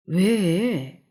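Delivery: a touch of annoyance; a mildly irritated question. A narrator's reading. Husband under the covers snapped at by his wife's prodding, mildly irritated. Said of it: "짜증스럽게".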